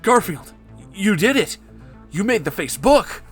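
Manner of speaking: high, loud joyful cry; excited shout. A narrator's reading. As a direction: shout it out in pure delight. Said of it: "shouted Mark Zuckerberg in joy".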